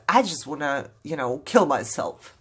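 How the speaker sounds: low, subdued quote of someone despairing; imitated despair. Quoting what somebody says when hopeless, low and subdued.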